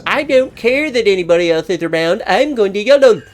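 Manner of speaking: mock reckless bravado. Gamer voices Schroeder charging in regardless, mock reckless bravado. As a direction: mimic a gung-ho player declaring his charge.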